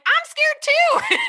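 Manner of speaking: high, slow laughing protest; exasperated laughing reply; laughing retort. Retold or imitated. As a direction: laugh it out at a friend. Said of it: "so pissed off because I was like".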